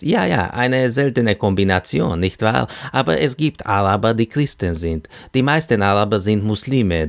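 chatty self-introduction, lightly acted; talkative Arab matchmaker. Hassan introduces himself to two women, eager chatter.

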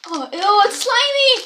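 high squeal of disgust. Real, not acted. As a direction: shriek at something slimy. Touching slimy licorice.

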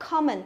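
"common" with short O, stress on first syllable; teacher's "common" with an open short O; correct model. Shown as a demonstration. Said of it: "âm O kiểu O ngắn ý".

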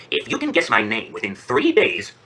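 slow, deliberate imp terms; bargaining imp. Acted. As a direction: spell out the challenge slowly. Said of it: "the imp says".

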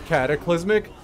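announcing a move. Acted. Calling out a move name.

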